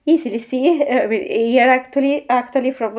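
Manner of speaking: stuffy nose from a cold; nasal voice. Real, not acted. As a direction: talk with a blocked nose. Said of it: "my nasal voice".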